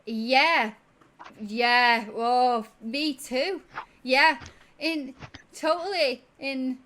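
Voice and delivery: very high and loud, faking understanding; bluffing tabaxi. Acted. Tabaxi pretending to know what inopportune means, high and loud. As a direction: nod along hopelessly to a big word. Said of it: "And he's like".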